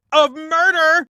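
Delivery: sudden high, loud punchline; spring the word like a horror twist; dramatic reveal. Acted. Host hamming up a murder clue, loud and high.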